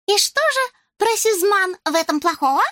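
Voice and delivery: put-on high, thin voice with a French accent; tiny mouse speaking with a French accent; Jacques, French accent. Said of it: "тоненький голосок с французским акцентом".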